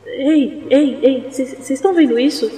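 high, startled calls of amazement; espantada. Pretend. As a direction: gasp out in sudden wonder. Suddenly floating above the island. (surpresa e empolgada)

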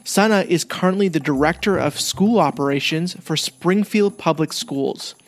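upbeat host reading a scripted intro; podcast intro read. Acted. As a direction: announce the episode like a radio host.

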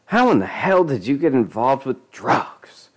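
hissed, breathy angry whisper. Acted. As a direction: whisper it in fury. Claudette whispering angrily.

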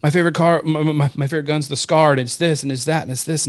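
mimicking a boy's enthusiasm; imitated excited kid. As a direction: gush like a kid listing favorites. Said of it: "Your kid just got more excited".

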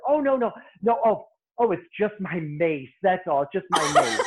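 high, loud and breezy, laughing it off; breezy dismissal. Retold or imitated. Client brushing off the mace cloud, high and laughing. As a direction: brush it off like nothing happened, laughing.

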